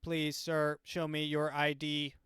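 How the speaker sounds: a slightly slow, lightly voiced police robot; a hint of robot cop demanding ID; stern robot voice. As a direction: play a mechanical patrol robot asking for ID. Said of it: "a little robot voice that's like".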